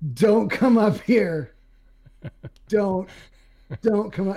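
put-on, high-pitched hollered call. Retelling warning the camp members off the trail: retelling own yell. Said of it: "I have to yell".

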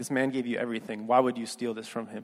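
plain

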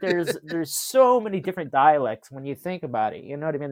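ordinary talk, nothing marked

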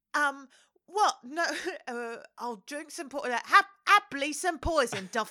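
loud, high-pitched, strong Cockney accent.

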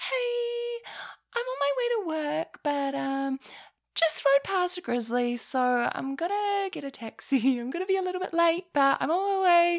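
tiny, very high little voice. Retelling a voicemail about being late to work: imitating own small voice. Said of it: "my little voice being like".

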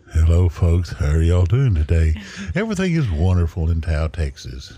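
mock radio announcer voice. Joking about being on live radio: put-on radio announcer voice. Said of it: "See you on live radio. I'm talking in".

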